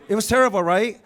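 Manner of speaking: laughing while saying it. Real, not acted. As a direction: laugh through the line. Laughing about traffic.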